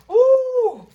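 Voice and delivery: sharp pained yelp; stubbed toe. Real, not acted. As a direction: cry out from sudden toe pain. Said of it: "Stubbed my toe!".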